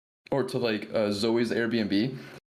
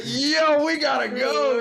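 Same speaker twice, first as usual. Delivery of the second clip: much higher, louder squeaky panicked yo; Jake's panic squeak; 5 dB louder, slower than usual. Retold or imitated. Jake panicking at the threat, squeaky high yelp. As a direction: squeak it like a scared friend. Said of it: "used the house sound".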